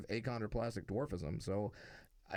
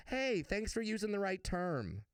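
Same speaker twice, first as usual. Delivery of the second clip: mock gratitude; 9 semitones higher than usual. Mock thanks he did not give.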